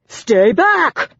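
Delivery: high, loud panicked scream; desperate scream. A narrator's reading. Cornered husband screaming at the officers. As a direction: scream at them to keep away. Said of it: "Remus screamed".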